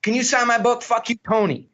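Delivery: high-pitched book-signing request; upbeat, high retold voice; imitated eager fan. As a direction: play a fan cheekily asking for an autograph. Acted fan asking for signed book.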